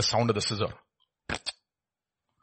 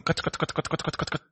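breathy whispered snips, like scissors; whispered cuts; 2 semitones lower, 11 dB quieter than usual. Pretend. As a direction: whisper each cut like scissor blades. Snipping sounds of pruning.

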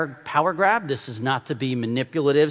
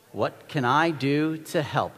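slow practice repeat; slower than usual. Shown as a demonstration. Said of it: "We'll practice it".

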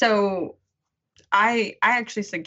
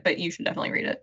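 fast, breathy sincere aside; quick whispered own recommendation; hushed aside; 3 semitones lower, 5 dB quieter, much faster than usual. Real, not acted. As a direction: rush it under your breath, meaning it. Sincere quick aside after quote.

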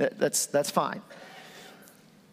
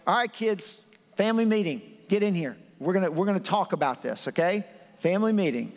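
parent calling family meeting; 2 semitones higher than usual. Retold or imitated. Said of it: "this is kinda like".

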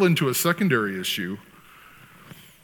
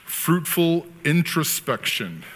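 慢速强调; 5 semitones higher, much slower than usual. Real, not acted. Announcing the key term slowly.

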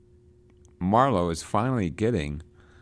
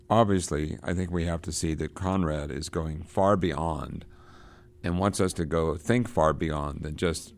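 normal talking voice

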